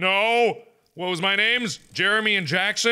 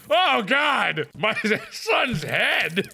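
tag-poor mock horror; 3 semitones higher, much slower than usual. Game son is decapitated.

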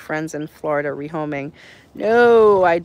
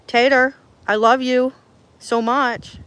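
loud and high, gushing love; affectionate call; 6 semitones higher, 8 dB louder than usual. Real, not acted. Owner to her old horse, loud and gushing. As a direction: call out your love to him.

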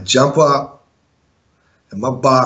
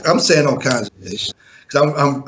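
usual speaking voice

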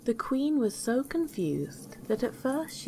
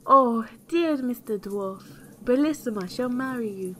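higher, louder pleading queen; raised-voice plea to the dwarf; loud desperate cry; 5 semitones higher, 5 dB louder than usual. A narrator's reading. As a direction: call out in storybook desperation. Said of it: "cried out as loud as she could".

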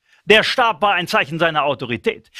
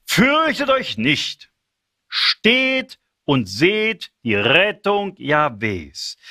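slow, solemn scripture reading; measured, confident promise, drawn out; solemn reassurance. Acted. Moses calms the frightened people, slow and solemn. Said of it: "Mose aber antwortete dem Volk".

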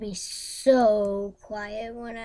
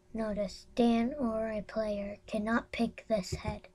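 whisper; 5 dB quieter than usual. Real, not acted. Whispered reading.

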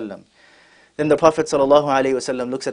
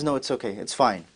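soft, lower, gently dismissing the matter; calm reassurance; 3 semitones lower, 9 dB quieter than usual. Retold or imitated. Prophet calms his companion who wants to act, gently reassuring. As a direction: quietly put someone at ease.

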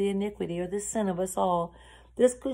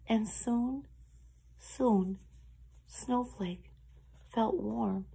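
hushed, soothing storyteller; tender story narration; 2 semitones higher than usual. A narrator's reading. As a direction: ease into the relief of rescue.

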